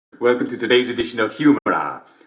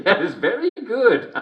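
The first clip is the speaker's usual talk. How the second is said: laughing approval; 8 semitones higher, slower than usual. Acted.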